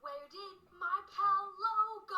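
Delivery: slow, emphatic title read; announcer title. Acted. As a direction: announce the segment. Old video segment title.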